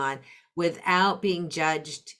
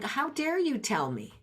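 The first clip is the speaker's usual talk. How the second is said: indignant; 8 semitones higher, 4 dB quieter than usual. Retold or imitated. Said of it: "they're feeling".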